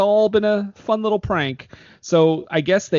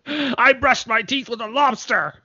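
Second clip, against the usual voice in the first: high, slow, laughing delivery; mock Anchorman line; 8 semitones higher than usual. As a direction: ham up a dazed line through laughter. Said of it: "a scene like in Anchorman Two".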